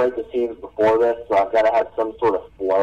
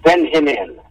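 raised, commanding master voice; 4 semitones higher, 3 dB louder than usual. Acted. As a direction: summon him with authority.

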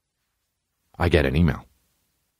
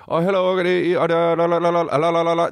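garbled phone voice; 3 semitones higher than usual. Retold or imitated. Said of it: "That's all I hear".

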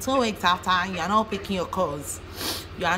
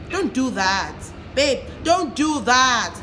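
mock scolding babe; 4 semitones higher, 4 dB louder, much slower than usual. Scolding a lying boyfriend.

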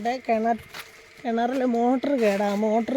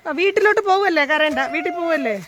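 comforting; 4 semitones higher, 4 dB louder than usual. Real, not acted. Comforting crying child.

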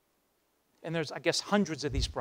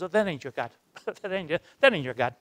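a hammed-up, laughing brush-off, a bit louder; laughing scoff; 6 dB louder, faster than usual. Madame laughing off Nick's God, mock scoffing. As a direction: laugh it off in disbelief.

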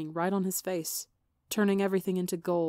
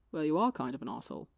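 teasing; faster than usual. Acted. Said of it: "Wilbur teased".

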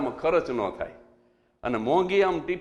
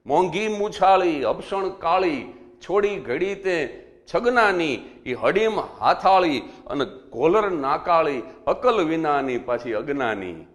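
doha recitation; slower than usual. Shown as a demonstration. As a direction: recite the full doha with a stage rhythm. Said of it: "એક દુહો લખ્યો છે".

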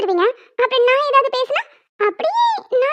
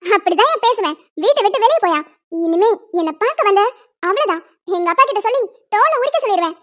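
mock threat. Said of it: "இப்ப பாருங்க என் ஆட்டத்தை".

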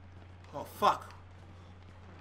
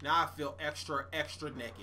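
low, deflated mutter; quiet defeated grumbling; 8 semitones lower, 15 dB quieter than usual. Real, not acted. Quiet dismay.

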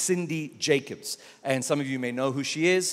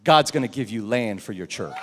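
lower, loud pronouncement; prophetic declaration; 4 semitones lower, 3 dB louder than usual. Retold or imitated. Pastor voicing the prophet's word, lower and loud. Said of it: "she said".

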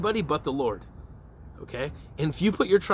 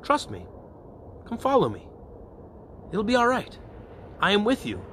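gentle inviting voice; 6 semitones higher than usual. Acted. God inviting a believer to trust, gentle voice. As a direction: invite them in with a mild, tender assurance. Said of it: "the other voice is this gentle voice".

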